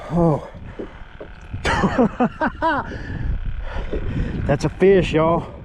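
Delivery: giddy angler showing off his bass; laughing with joy. Real, not acted. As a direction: laugh out the thrill of the catch. Just landed a big fish.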